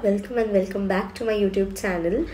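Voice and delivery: hoarse from a cold; cracked, raspy voice from a cold. Real, not acted. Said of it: "আমার গলাটা পুরো ভেঙে আছে".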